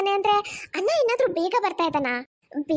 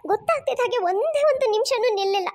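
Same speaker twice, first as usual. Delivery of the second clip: tearful, hitting ಒಂದೇ; crying complaint; 3 semitones higher than usual. Acted. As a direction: sob through it, stress on ಒಂದೇ. Mother complains of daughter, crying. (ಅಳುತ್ತಾ ಒಂದೇ ಪದಕ್ಕೆ ಒತ್ತು)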